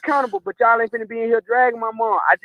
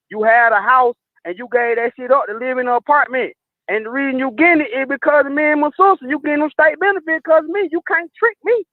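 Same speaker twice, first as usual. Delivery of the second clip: defiant retort to grandma; 3 semitones higher than usual. Retold or imitated. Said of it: "I said it just like that".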